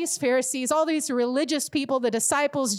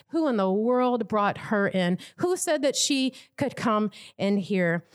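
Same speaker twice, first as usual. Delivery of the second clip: slowed, scandalized murmur of disapproval; shocked murmuring; 2 semitones lower than usual. Retold or imitated. Dinner guests whispering about the sinful woman, slow scandalized murmur. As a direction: mutter it like a shocked onlooker. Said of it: "maybe some murmurs of".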